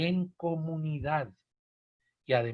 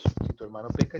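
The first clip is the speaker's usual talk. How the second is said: first version; 5 semitones lower than usual. Shown as a demonstration. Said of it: "nos encontramos con dos".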